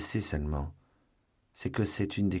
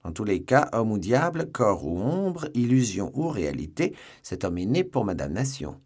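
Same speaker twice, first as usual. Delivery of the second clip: heated rant; 4 semitones higher than usual. Acted. D'Artagnan rants about the man.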